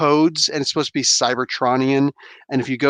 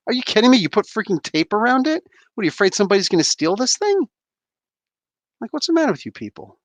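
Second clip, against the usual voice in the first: higher-pitched, incredulous complaint; mock outrage at the tape; exasperated rant; 8 semitones higher than usual. Real, not acted. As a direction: rant at the packagers in disbelief. Finds tape around toy.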